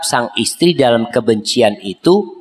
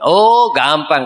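easy-going sheikh; much slower than usual. Acted. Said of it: "kata syekh".

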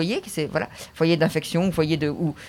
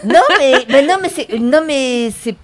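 laughing; 5 semitones higher, 7 dB louder than usual. Real, not acted. Laughing protest at the joke.

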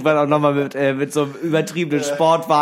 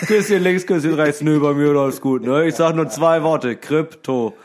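gushing show-off; 4 dB louder, slower than usual. Retold or imitated. Acted show-off to neighbours.

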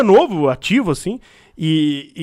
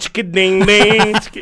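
berimbau sound; slower than usual. Retold or imitated. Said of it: "o berimbau".

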